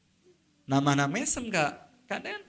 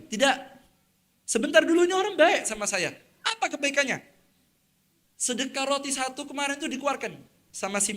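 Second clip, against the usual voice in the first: high, loud pleading defense; loud protest; 8 semitones higher, 3 dB louder than usual. Acted. Poor man shouts at angels to spare his benefactor. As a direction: cry out to hold them back.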